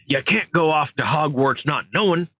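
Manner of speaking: worried giant urging, voice lifted; Hagrid voice. Acted. Hagrid voice, later reread plainly.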